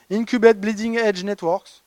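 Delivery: English buzzwords in a French accent. Real, not acted. French presenter reading English jargon in a French accent. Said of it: "excusez mon accent".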